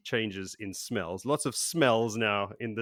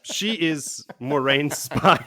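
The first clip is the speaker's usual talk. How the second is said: slow, louder, higher hammed-up Greek accent; mock Greek accent; 5 semitones higher, 6 dB louder, slower than usual. Host cracks up the co-hosts describing the innkeeper, mock Greek accent. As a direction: draw it out in a badly faked Greek accent. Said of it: "that was my best Greek accent".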